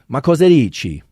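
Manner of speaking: Italian phrase sung out high with a big falling tune; lively Italian lilt, dropping at the end. Shown as a demonstration. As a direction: show off the rise and fall of Italian. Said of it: "There's a lot of lilt and fall in Italian".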